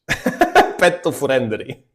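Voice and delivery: "Petto Furendri" slow and laughing. Retold or imitated. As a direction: chuckle through "Petto Furendri". Repeating the funny sign.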